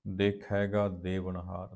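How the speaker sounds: measured, drawn-out chanting of gurbani lines; slow scripture recitation. Acted. Teacher recites the hymn slowly for the students. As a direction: recite each line slowly with reverence.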